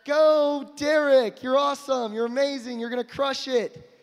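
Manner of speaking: a playful little cheer-squad shout; mock cheering. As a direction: cheer yourself on, hammed-up.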